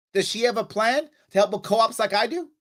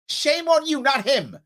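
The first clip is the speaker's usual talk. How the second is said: heated yell; 6 semitones higher, slower than usual. Real, not acted. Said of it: "I was yelling and screaming".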